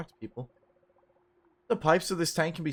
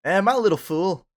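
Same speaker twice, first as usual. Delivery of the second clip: country accent attempt; 3 semitones higher, 5 dB louder than usual. Shown as a demonstration. Gamer retries the line in a country accent. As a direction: try the line again with a country twang. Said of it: "Gotta do my Applejack".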